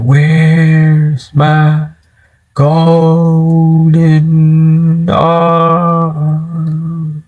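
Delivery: very slow, drawn-out spooky moan; ghost creeping closer. Retold or imitated. Ghost lady closing in on the family, eerie stretched wail. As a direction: hold each word like a haunting ghost. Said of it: "until she gets closer, closer".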